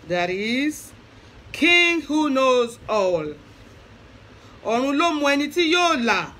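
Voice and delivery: slow, solemn Yoruba praise chant recital; praise poem recital. Shown as a demonstration. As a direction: recite Ifa's praise names with reverence, slowly. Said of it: "I'm gonna say Ifa Oriki now".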